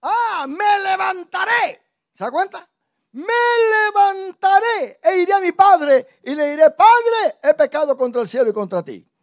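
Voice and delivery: high, loud, tearful cry to the father; crying out repentance. Retold or imitated. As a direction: wail it like a son breaking down. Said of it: "lo que dijo el hijo".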